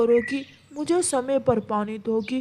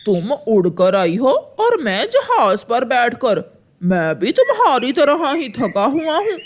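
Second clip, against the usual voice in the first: crow husband voice; 5 dB louder than usual. Acted. Crow answers his wife.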